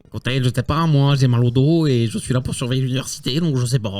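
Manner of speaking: lightly voiced grumbling university guard; fed-up gatekeeper. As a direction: brush visitors off as a weary guard.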